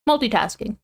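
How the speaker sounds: talking while crunching salad. Real, not acted. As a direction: mouth full of crunchy salad. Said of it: "Sorry if you can hear me crunching".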